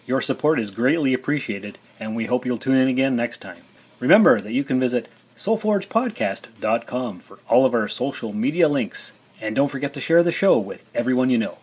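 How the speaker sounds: measured podcast sign-off read; announcer outro. Acted. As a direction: deliver it as a polished show outro. Reads the show's closing announcement.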